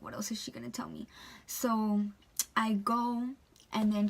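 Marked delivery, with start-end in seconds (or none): 0.0-1.1 anxious whisper, much softer; worried, barely voiced; nervous whisper. Nervous waitress whispering to herself before facing the customer. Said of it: "I felt so nervous".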